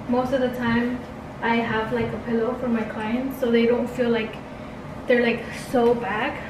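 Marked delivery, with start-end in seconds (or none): 1.9-6.4 winded, breathing between words. Real, not acted. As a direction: talk while catching your breath. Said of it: "I'm, like, so out of breath".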